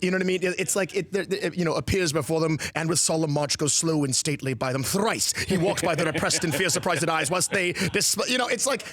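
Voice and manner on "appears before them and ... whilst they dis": British-sounding mid-Atlantic Shakespeare; stately verse, mid-Atlantic accent. Shown as a demonstration. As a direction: declaim it in a mid-Atlantic stage dialect. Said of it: "It sounds British".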